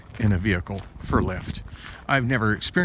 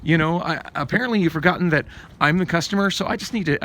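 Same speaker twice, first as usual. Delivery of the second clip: higher, fed-up telling off; exasperated retort; 8 semitones higher than usual. Retold or imitated. Telling the distracted Lyft driver off, higher and fed up. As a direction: snap back at a rude driver. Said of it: "And I'm just like".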